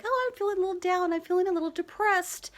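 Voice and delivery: high, quick quoted voice; mock confession. Voices someone admitting feeling low.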